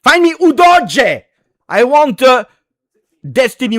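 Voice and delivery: a fan bellowing for a new signing; excited shout. Real, not acted.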